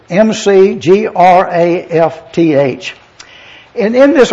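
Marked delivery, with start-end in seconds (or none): 0.1-3.0 spells M C G R A F T H letter by letter; M C G R A F T H spelled out for the listeners. Shown as a demonstration. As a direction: read out M C G R A F T H one letter at a time, slowing at the end. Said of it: "the name of the writer is".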